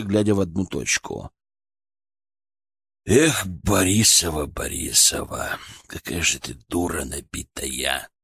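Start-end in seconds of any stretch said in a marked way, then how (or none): 3.0-8.1 slow, bitter sigh of regret. Acted. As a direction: lament her bitterly. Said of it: "с горечью сказал Шаповалов".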